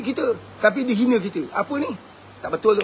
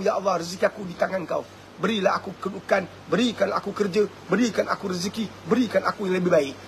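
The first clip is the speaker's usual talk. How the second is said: mock prayer; 2 semitones lower than usual. Voices a prayer to God.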